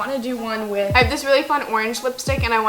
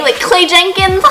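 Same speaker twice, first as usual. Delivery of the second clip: giggling through the name; laughing; 8 semitones higher, 7 dB louder than usual. Real, not acted. Joking about a Thirteen Reasons Why character, laughing. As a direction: laugh as the joke lands.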